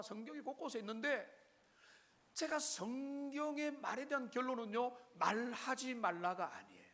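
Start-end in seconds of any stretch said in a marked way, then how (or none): none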